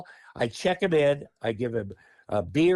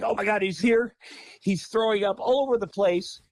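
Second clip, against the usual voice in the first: higher-pitched imitation of a hysterical caller; retold alarm, a touch of hysteria; mildly hysterical; 6 semitones higher than usual. Boston woman phoning about the wrong man, imitated mild hysteria. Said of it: "She's hysterical. She's like".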